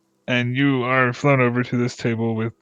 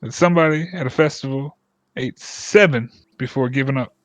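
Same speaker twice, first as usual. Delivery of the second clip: much higher, louder, hopeful boast; excited villager; 5 semitones higher, 4 dB louder than usual. Acted. Villager boasting to the party about his pie record, excited.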